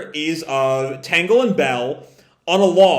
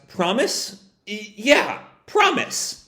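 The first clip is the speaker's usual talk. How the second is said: nervous promise; 5 semitones higher, slower than usual. Retold or imitated. Scared child and reassurance.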